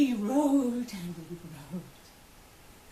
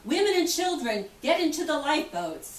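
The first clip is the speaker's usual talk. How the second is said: raised voice calling out orders, higher; officer yelling; 4 semitones higher than usual. Retold or imitated. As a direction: call the order across the deck. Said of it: "officers yelling out".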